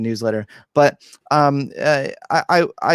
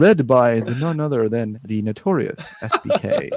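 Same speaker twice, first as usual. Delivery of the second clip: deep radio voice. Shown as a demonstration. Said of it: "This is how I read it".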